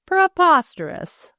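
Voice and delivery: high, drawn-out indignant outburst; fuming. A narrator's reading. Mother rejecting the engagement, fuming. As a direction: dismiss it in outraged disbelief. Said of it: "fumed Missus Burnham".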